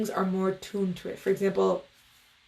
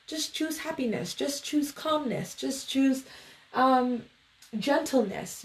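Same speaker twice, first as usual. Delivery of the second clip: higher, softer, airy platitudes; mock soothing advice; 4 semitones higher, 3 dB quieter, slower than usual. Teacher mimicking "just choose happiness" advice, mock soothing. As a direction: lightly parody a gentle positivity coach. Contrasted way of talking, acted out.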